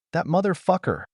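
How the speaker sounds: high, bitter angry outburst. Acted. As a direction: spit it out in disgust. Mikhail scowls reading false report.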